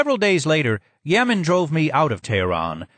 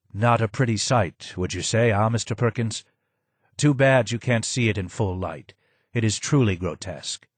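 low and hoarse. Acted. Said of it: "was low and hoarse".

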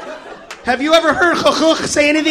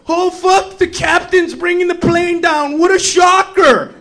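mock shock; 4 semitones higher, slower than usual. Mock shock at captain's announcement.

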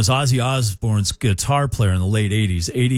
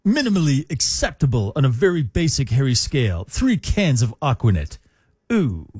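lightly voiced nerdy cartoon character; nerd guy voice. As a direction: read it as a snooty know-it-all nerd. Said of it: "I gotta read this in the nerd guy's voice from The Simpsons".

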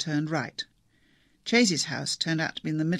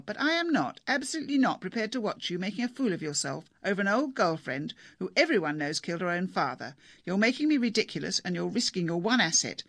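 angry wife. Acted. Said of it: "Missus Chase was still batting away upstairs".

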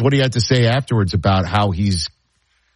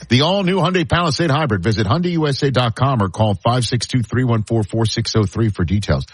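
ad read. Acted. Host finishes car ad.

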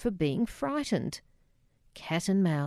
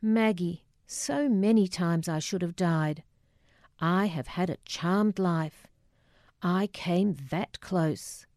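lightly voiced father in a hybrid Polish-Scottish accent. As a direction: reminisce as Dad, with a touch of Polish-Scottish. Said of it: "his curious hybrid Polish-Scottish accent".

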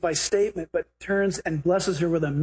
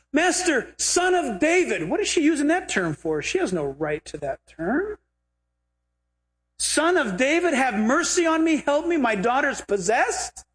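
pleading woman; 6 semitones higher than usual. Retold or imitated. Voicing pleading Canaanite woman.

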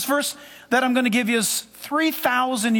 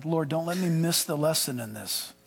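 quiet prayer; 6 semitones lower, 6 dB quieter than usual. Shown as a demonstration. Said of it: "You pray that prayer".

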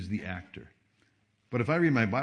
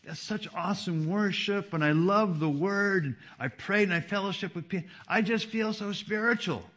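mock-gushing, pitched higher; gushing churchgoer; 7 semitones higher than usual. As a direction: imitate a churchgoer gushing after service.

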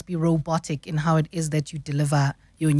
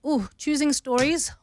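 pleased ooh; 8 semitones higher than usual. Real, not acted. Delighted reaction to question.

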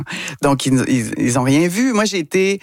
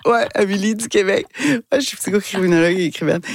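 put-on softened Québec accent; 5 semitones higher than usual. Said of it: "j'avais changé un peu mon accent".

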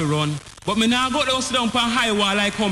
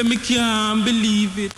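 outcry of disbelief; 4 semitones higher, slower than usual. Acted. Refrain answered louder.

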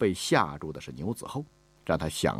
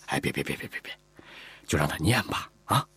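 placating; 3 semitones lower than usual. Acted. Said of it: "赶忙打圆场".

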